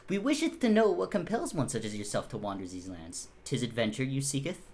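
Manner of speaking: lightly voiced, pompous knight; archaic knight. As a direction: inquire with mock-medieval formality. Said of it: "stop talking like that".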